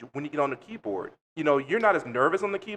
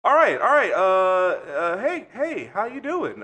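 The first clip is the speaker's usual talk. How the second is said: imitating an eager guy, higher and louder at the start; a hint of a smooth, eager dude; eager mock greeting; 3 semitones higher, 5 dB louder, slower than usual. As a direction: ham up the overeager flirt who was waiting by the phone. Guy's eager reply retold.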